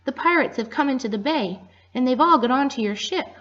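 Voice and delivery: high, loud breathless warning; flustered penguin warning the doctor; flustered and excited. Acted. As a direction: rush the news out in alarm. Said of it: "very flustered and excited".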